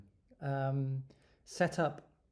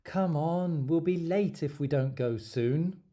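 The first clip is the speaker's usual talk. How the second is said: examiner in role-play; 3 semitones higher, 4 dB louder than usual. Acted. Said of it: "I start".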